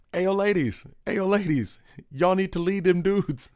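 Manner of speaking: high, hammed-up drunken holler out a car window; a singer doing Ed. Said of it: his best impression of a singer doing Ed Rodriguez.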